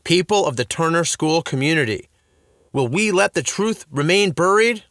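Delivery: loud, grand rally cry; rousing speech. A narrator's reading. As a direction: rouse the crowd. Dad rallies the crowd.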